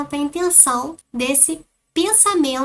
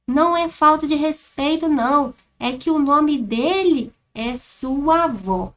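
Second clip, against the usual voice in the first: put-on girl explaining; 2 semitones higher than usual. Shown as a demonstration. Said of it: "como está a entonação do texto".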